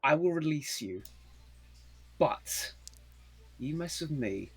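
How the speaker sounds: measured threat, building in force; lightly acted menace with deliberate pauses; not playing around. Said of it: "he's not playing around".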